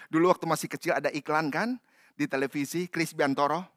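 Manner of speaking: ordinary talk, nothing marked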